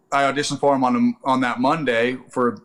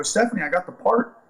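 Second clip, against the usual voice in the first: excited news; 8 semitones higher than usual. Retold or imitated. Telling wife the news.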